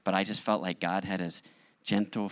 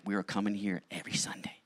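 whisper; 5 dB quieter than usual. Retold or imitated. Whispered plan to wife.

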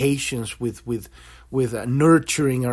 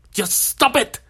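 mock shout; 8 semitones higher than usual. Therapist loses patience with the patient, mock shouting. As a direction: shout the order at him, hammed up.

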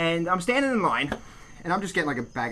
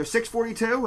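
higher-pitched counter call; calling out a number; 5 semitones higher than usual. Retold or imitated. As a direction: mimic the deli clerk calling an order. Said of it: "the deli starts calling out a number".

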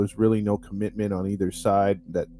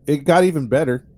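raised, louder sarcastic emphasis; dry sarcasm, pushed up a little; 5 semitones higher, 5 dB louder than usual. Real, not acted. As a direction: say it with heavy irony. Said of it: "I hear the sarcasm in your voice".

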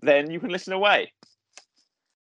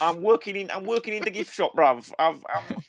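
higher-pitched hammed-up Cockney geezer; a lightly put-on Cockney lad, higher up; mock Cockney accent; 4 semitones higher than usual. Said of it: "That's how he sounds".

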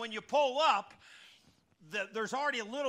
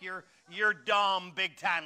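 scolding machine; 4 dB louder, much slower than usual. Retold or imitated. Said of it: "Just like".

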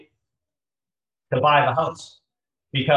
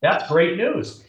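each word drawn out slowly, selling it; slow emphatic declaration; 5 semitones higher, much slower than usual. Real, not acted. Pitching a halved gap as good news, slowly. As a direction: stretch it out to make the point. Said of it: "It's been cut in half".

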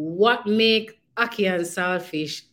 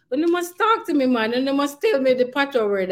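high, loud teasing nudge; mock-stern urging, pitched up; playful scolding; 8 semitones higher, 4 dB louder, faster than usual. Real, not acted. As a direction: coax the audience to talk back. Host urges listeners to comment.

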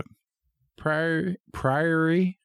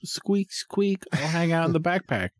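much higher squeaky little voice, a bit fast; tiny mouse dad; 7 semitones higher than usual. Pretend. Tiny shrunken dad answering his kids, in a high squeaky voice. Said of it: "I'd be like".

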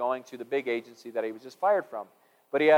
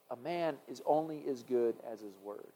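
quoted saying; 11 dB quieter than usual. Shown as a demonstration. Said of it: "there's this saying that we've all heard".

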